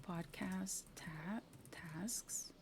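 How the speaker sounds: whispering while typing; soft unvoiced whisper. Real, not acted. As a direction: murmur the words as you type. Typing a name quietly.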